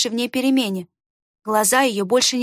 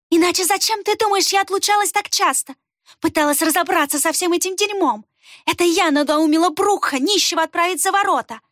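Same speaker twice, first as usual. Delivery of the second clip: furious gloating; 7 semitones higher than usual. A narrator's reading. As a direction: gloat with venom. Рукс boasts furiously. (злорадно, очень высоко)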